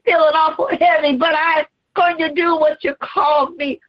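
preached Jesus, straining then crying out; Jesus on the cross. Acted. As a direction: shout through the weight of the cross.

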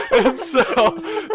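loud, high burst of laughter; big laugh. Real, not acted. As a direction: crack up hard at the memory. Bursts out laughing mid-story.

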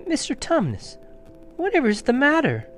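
high, anxious little enquiry; gently worried child voice; concerned. Acted. Lucy sees the fawn's tears, concerned.

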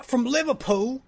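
high, loud put-on Liverpool answer; mock British accent. Manager confirms the newcomer's hometown, mock British accent. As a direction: imitate an English accent, hammed up. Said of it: "Sally comes up and says".

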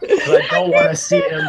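very high, wailing protest; high-pitched, whiny panic; scared protest. Real, not acted. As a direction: cry it out in a panicky squeal. Scared player justifying himself.

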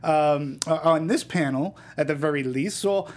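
lightly put-on Greek accent; a hint of a Greek accent. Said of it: "I'm gonna do my opinion in, in my Greek accent".

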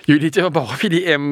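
laughing through the words. Real, not acted. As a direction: chuckle while you say it. Laughing at own joke. (พูดไปหัวเราะไป)

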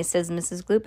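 ordinary delivery, nothing marked

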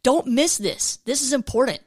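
urgent, emphatic voice of Jesus; extra oomph. Shown as a demonstration. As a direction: read it like it's a warning not to miss. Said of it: "I read it with a little extra oomph".

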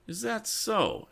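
high, slow, pointed comeback; indignant retort. Acted. Tom answers the rude driver, high and slow in scorn. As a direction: throw the question back with offended scorn. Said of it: "his eyes flashing at the cheap wit".

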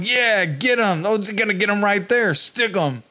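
slow, drawn-out egging on over a speaker; intercom voices. Retold or imitated. Guard on the intercom urging the attack, mock cheering. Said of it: "on the intercoms going".

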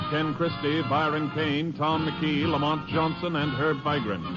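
ordinary talk

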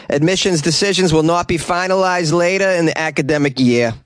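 put-on thick Boston accent, dropped Rs. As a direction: tell it like a Boston local. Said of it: "I'm gonna do a Boston accent for this story".

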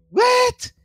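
high incredulous "What?" then a dismissive scoff; baffled scoffing. Retold or imitated. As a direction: play the confused internet skeptic. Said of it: "who are like".

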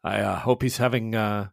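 soft, lightly voiced Italian priest, gentle and hopeful; a hint of a kindly father wishing John well. The priest hearing of John's retreat, softly Italian.

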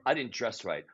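low, soft self-reproach; quiet, glum mock confession; muttered misery. Imagined prom-goer fretting about clothes, muttered low. Real prom talk against gushing line.

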